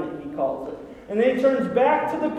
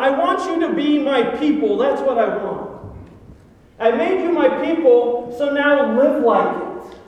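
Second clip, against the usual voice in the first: frustration; 3 dB louder than usual. Acted. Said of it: "we should sense some frustration here".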